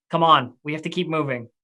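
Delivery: calm, composed, unmoved stoic tone. Narrating a game scene, a character ignores a voice and turns to the group, stoic. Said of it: "she like stoically like turns to the rest of them and goes like".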